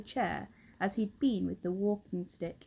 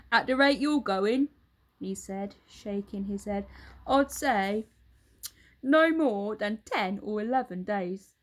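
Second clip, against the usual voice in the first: louder, grave, mock-serious verdict; Mr Twit, mock solemn; 5 dB louder than usual. Husband fakes a solemn verdict to his wife. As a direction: pronounce it like a doctor.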